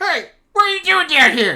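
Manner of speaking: put-on very high-pitched, very loud, shrill childish voice. Narrating a scene, a voice comes in the door behind the others: loud childish voice. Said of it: "a loud childish voice come in the door behind you".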